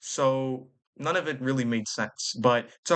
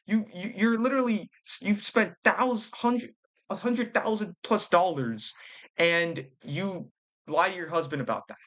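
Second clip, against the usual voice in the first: exasperated; 4 semitones higher than usual. Real, not acted. Exasperated at wife's spending.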